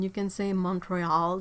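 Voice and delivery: slow French "Montreal" with nasal vowel. Shown as a demonstration. Showing the French way to say the city, slowly. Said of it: "you can say Montreal fine".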